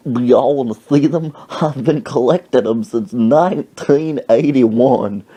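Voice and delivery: hint of a doddering old man; old man's halting talk. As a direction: draw out the words like an elderly collector. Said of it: "That's how he talked".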